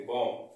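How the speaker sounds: बॉम्ब said "bom"; correct pronunciation. Shown as a demonstration. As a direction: end बॉम्ब on m with silent b. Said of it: "pronunciation हमारा इसका क्या रहेगा".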